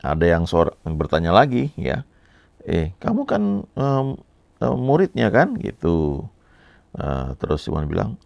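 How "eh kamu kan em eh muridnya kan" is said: accusing voice. Retold or imitated. Second accuser voiced in story.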